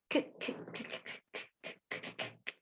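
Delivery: rapid soft k clicks, no voice; repeated whispered k bursts; voiceless k sound. Shown as a demonstration. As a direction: tap out bare k sounds quietly. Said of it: "the sound of the letter K".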